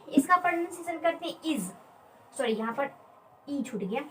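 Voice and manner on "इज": "इज" said as a model word; pronunciation demo. Shown as a demonstration. Teacher showing friends how the word is read, pronunciation demo. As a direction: model "इज" clearly for learners. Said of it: "इसका pronunciation क्या करते हैं".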